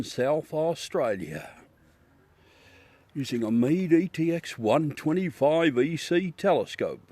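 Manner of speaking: mock live-broadcast announcer, measured and proud. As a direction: announce it like a show sponsor credit.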